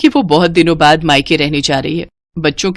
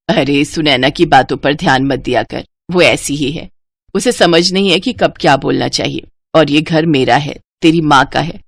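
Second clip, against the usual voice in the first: put-on lower, tender older mother; mother's voice; 4 semitones lower than usual. Mother consoles Komal about Sunaina, lower tender voice. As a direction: soothe your upset daughter, voice lowered.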